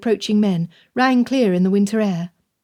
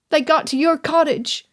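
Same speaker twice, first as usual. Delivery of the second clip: put-on much higher, a frightened child's outburst; upset boy crying out; 7 semitones higher than usual. A narrator's reading. Jonah telling Madame her cottage was raided, higher and upset. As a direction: blurt it out like a scared boy. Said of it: "Jonah cried".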